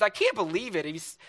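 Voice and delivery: mock upset venting. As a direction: act out a wife complaining to her sister. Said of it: "she's so upset".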